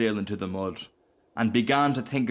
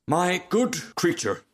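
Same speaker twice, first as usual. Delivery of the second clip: slow, higher, lofty condescension; haughty; 7 semitones higher, slower than usual. A narrator's reading. Haughty Rocket addressing a lowly Duck, very condescending. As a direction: talk down with drawn-out grandeur. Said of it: "in a very haughty tone of voice".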